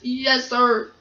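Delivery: mildly tearful acted reply; a touch of crying, understated. Gordon obeys the controller, crying a little. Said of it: "said Gordon, crying".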